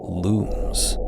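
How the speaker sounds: ordinary delivery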